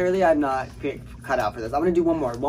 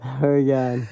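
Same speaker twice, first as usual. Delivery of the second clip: laughing groan; 4 semitones lower, 4 dB louder than usual. Real, not acted. Collapsing after burpees.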